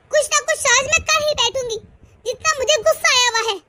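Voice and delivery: ऊँची, ज़ोरदार गुस्से भरी धमकी; कैंची थामे पति को ललकारना; गुस्से में धमकी. Acted. पत्नी का गुस्सा जारी. (पति को कैंची दिखाकर ऊँची आवाज़ में गुस्से से धमकाना)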